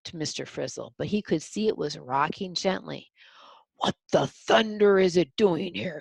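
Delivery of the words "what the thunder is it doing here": louder, indignant demand; an irritated old ghost shouting; angry shout. Acted. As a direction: shout it in a temper. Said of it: "he shouted".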